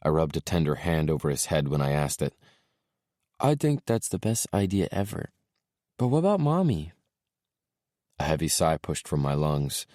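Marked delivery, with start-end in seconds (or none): 3.4-6.9 put-on high, eager little boy. A narrator's reading. Small boy telling dad his toys are at mommy's, little boy voice.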